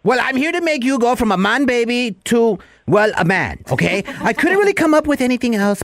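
high-pitched barking sergeant; drill sergeant. Acted. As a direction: lecture the recruit, barking. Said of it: "Drill Sergeant Nacho Chavez".

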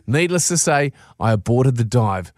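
lively storyteller reading a letter; reading an email aloud. Acted. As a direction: read it like a funny letter. Reads out the diver's email.

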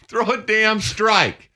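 high, slow, laughing yell. Retold or imitated. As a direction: laugh while yelling the order. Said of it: "catchers just going".

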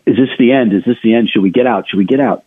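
lightly put-on Southern accent. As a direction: voice worried callers in a mild Southern accent. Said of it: "if I could use my brother's Southern accent there".

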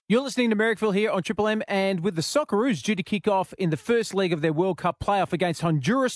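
fast, punchy on-air promo read; brisk announcer voice introducing the guest; radio announcer. Acted. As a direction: sell the segment like a radio host. Radio host reads promo intro.

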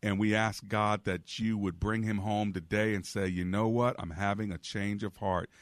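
earnest pleading prayer. Real, not acted. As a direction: pray earnestly for the caller. Host leads prayer on air.

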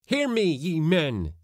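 cry out. A narrator's reading. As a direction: cry out to demand a hearing. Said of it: "he cried".

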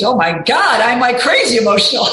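half-laughed surprised admission; giggling at yourself; laughing realization. Retold or imitated. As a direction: laugh through the discovery. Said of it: "then I found out".

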